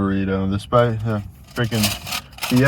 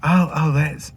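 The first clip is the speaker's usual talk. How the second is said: higher, badly faked Southern accent; failed Southern accent; 5 semitones higher, slower than usual. Pretend Southerner replying to a Bostonian, badly faked Southern accent. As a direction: attempt a Southern accent and falter. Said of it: "I can't even do a Southern accent".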